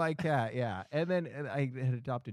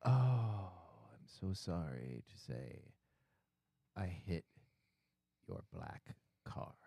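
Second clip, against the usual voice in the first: broken English caller; 6 semitones lower, 6 dB quieter, slower than usual. Retold or imitated. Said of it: "a person that doesn't speak very good English says".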